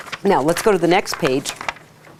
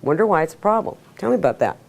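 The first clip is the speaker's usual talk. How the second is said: thoughtful musing; faster than usual. Shown as a demonstration. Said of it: "gets you back to the logical going".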